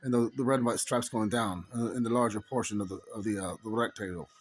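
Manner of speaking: affected Irish dialect; put-on Irish accent. Telling viewers about a flag, put-on Irish accent. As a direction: talk on in an assumed Irish voice.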